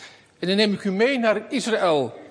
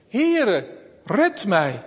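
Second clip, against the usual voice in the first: crying out; 3 semitones higher, 3 dB louder, much slower than usual. Acted. Sinking Peter calls to the Lord, a mild cry. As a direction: call out to be saved, understated. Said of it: "riep hij".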